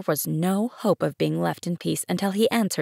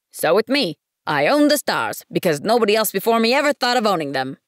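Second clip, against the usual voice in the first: pompous businessman; 3 semitones higher, 5 dB louder, faster than usual. Acted. Businessman argues his ownership.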